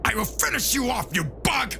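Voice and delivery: serious Vegeta. Acted. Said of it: "Vegeta is serious and says".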